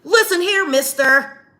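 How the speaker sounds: jumps high on listen, playfully stern; mock old-timey white voice. Mocking how white people talk, old-timey scolding voice. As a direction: parody a prim old-fashioned scold. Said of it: "talking like that".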